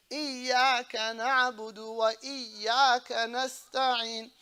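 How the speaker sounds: deliberate recitation of "إياك نعبد وإياك نستعين", y doubled; correct shaddas. Shown as a demonstration. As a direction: stretch the double y in both "إياك". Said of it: "get the shaddas correctly".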